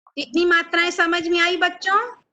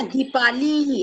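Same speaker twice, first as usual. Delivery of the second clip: दीपाली with the "ee" sounds pulled long; drawn-out vowels; much slower than usual. Shown as a demonstration. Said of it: "तो जहां भी हम खींचेंगे".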